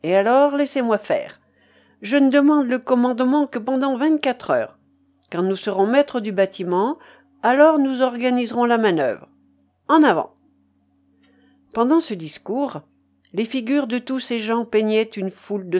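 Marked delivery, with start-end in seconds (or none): 0.0-10.3 raised, emphatic orator's delivery; rally the men to follow you; rousing leader. A narrator's reading. Mutiny leader addressing the crew, rousing.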